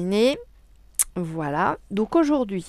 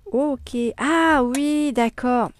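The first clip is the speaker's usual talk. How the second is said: sudden realisation; 5 semitones higher, 5 dB louder, much slower than usual. Real, not acted. Realising what the clue meant.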